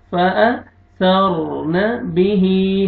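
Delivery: फ़अथरन बिही chanted slowly, the last ee held long; stretched hee. Shown as a demonstration. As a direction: draw out the end of बिही in फ़अथरन बिही. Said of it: "हा को खींचना है". (बिही की हा को खींचकर)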